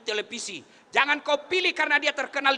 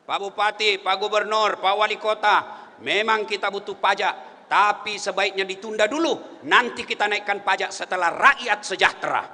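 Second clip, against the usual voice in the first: lightly voiced council member, lower and measured; council member speaking up; 4 semitones lower than usual. Council member asking officials to delay taxes, lightly acted measured appeal. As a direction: reason evenly with officials in a slightly lowered voice. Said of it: "Anggota dewan ngomong".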